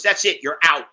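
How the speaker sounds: put-on host ordering the drunk guest out; firm eviction. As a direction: throw her out flatly. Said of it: "He goes".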